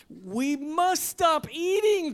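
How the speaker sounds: high, loud, drawn-out storybook protest; slow, loud, dramatic plea; alarmed cry. A narrator's reading. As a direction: cry out against your own greed. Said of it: "cried Toad as he ate another".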